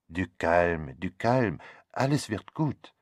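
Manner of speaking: reassuring murmur in French, then lifting; calm her gently; soothing. Acted. Detective steadies the stumbling woman. (beruhigend zuredend)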